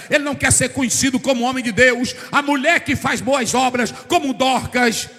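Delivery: loud, sung-out preaching cadence; chanting pulpit fervour; full-force preaching. Acted.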